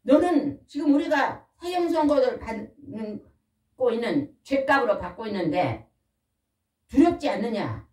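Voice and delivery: rebuking thief. Acted. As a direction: scold the other criminal gravely.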